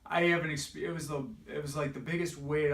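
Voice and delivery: slow, voice breaking at the start; holding back real tears while remembering; choked up. Real, not acted. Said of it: "I might even start crying right now".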